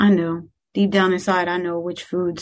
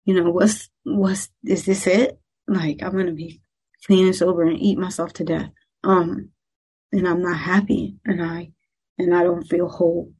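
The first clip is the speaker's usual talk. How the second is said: choked up. Real, not acted. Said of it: "that is getting me emotional".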